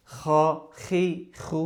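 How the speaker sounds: খ, খি, খু with a throaty Arabic kh; Arabic kho sound. Shown as a demonstration. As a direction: scrape the kh of "খ" in the throat, unlike Bengali kh. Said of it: "খ এর উচ্চারণটা কিন্তু এরকম না". ("খ" আরবির মতো গলা থেকে)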